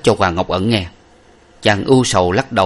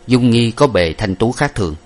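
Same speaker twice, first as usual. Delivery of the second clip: plain reading voice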